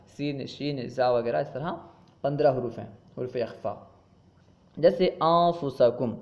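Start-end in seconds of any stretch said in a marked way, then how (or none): 5.2-6.1 "انفسکم" with the noon hidden as a nasal hum; hidden noon (ikhfa). Shown as a demonstration. Teacher gives students an ikhfa example, noon of "انفسکم" hidden. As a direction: glide through the n of "انفسکم" without sounding it. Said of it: "نون ساکن کو چھپا کر پڑھتے ہیں".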